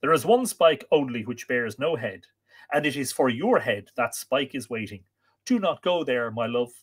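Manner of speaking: dramatic narrated plea, starting high and loud; urgent warning that settles as it goes on; urging. A narrator's reading. Lover dissuading him from that drear journey, urging. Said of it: "she urged".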